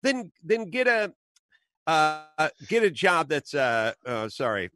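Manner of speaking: high, sneering mock quote. Podcaster mimicking the official jeering at a reporter. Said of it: "he starts mocking her".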